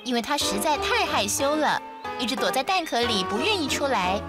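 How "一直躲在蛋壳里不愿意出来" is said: ordinary delivery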